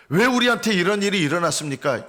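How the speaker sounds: people's aggrieved outcry; crying out in complaint. Acted. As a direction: plead why this happened. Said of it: "이렇게 부르짖어서는 안 되고".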